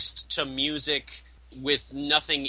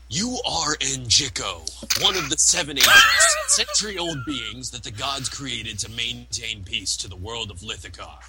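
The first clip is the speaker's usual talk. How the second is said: movie announcer voice. Pretend. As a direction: read it like a movie trailer. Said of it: "in my movie announcer voice".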